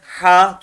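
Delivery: Ha breathed softly from the throat, unlike Turkish h; a gentle throat Ha; soft throaty ha. Shown as a demonstration. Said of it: "Türkçedeki ha'dan farklı". (Ha, Türkçedeki ha'dan farklı, yumuşak)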